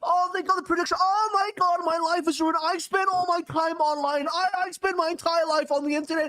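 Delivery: put-on high-pitched whining online teen; whiny terminally online teen. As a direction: wail like a devastated nineteen-year-old. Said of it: "all the nineteen-year-old terminally online people".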